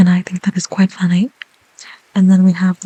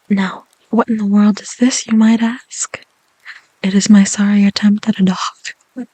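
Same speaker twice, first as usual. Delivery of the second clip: whisper. Real, not acted. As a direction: breathe the words gently. ASMR whisper throughout.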